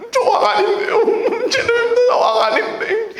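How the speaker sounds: high, squeaky mock-sobbing denial; 겁먹은 죄인. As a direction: plead like a cowering prisoner, hammed up. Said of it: "이렇게 된다고요". (과장되게 겁먹고 우는 높은 목소리)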